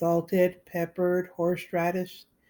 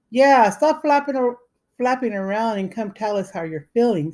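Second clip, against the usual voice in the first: urgent; 4 semitones higher, 5 dB louder than usual. A narrator's reading. Joe pleading, voice raised.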